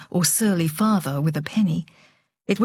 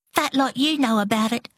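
put-on a mild cross retort, higher girl's voice; 4 semitones higher than usual. A narrator's reading. Delore rebuffs Harry's critique of her lipstick, mildly cross. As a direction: snap back, only a touch cross. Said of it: "said Delore crossly".

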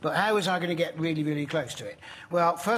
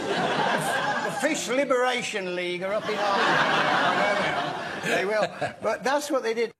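laughing; 3 semitones higher than usual. Real, not acted. Laughing at his own story.

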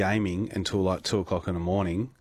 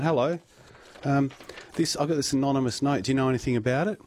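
higher-pitched, politely probing retelling; feigned innocent inquiry; 6 semitones higher than usual. Retold or imitated. Presenter retells asking the neighbour about the note, feigned innocent inquiry. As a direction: act out a mild, innocent question. Retold corridor chat with neighbour.

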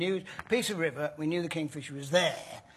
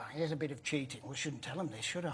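quiet; 3 semitones lower, 10 dB quieter, faster than usual. Real, not acted. Confessing cheating, conspiratorial aside.

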